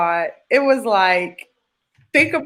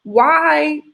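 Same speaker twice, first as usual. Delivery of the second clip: higher-pitched, insistent appeal; aggrieved plea; 5 semitones higher than usual. Retold or imitated. Patient at home questioning God, aggrieved pleading. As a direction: plead your case, building to "why".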